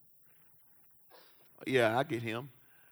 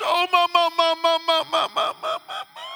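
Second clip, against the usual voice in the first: high, rising mock church swoon; mock churchgoer; 5 semitones higher, faster than usual. Churchgoer moved in service, mock swooning high. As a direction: ham up a churchgoer caught in the spirit. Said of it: "touched in church".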